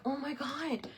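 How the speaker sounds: exasperated whisper; whispered exasperation at the barking. Retold or imitated. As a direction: mutter it unvoiced in tired annoyance. Annoyed at barking dog.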